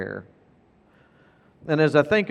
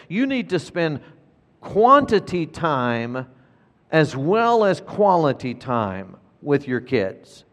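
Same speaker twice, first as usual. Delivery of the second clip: quantity time said slowly and pressed; preacher stressing quantity over quality; emphasis on quantity; slower than usual. Real, not acted. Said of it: "let me emphasize this".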